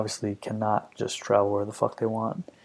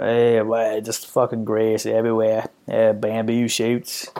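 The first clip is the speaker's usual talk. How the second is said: mock Australian reviewer; 5 dB louder, slower than usual. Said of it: "no matter where he was in the world".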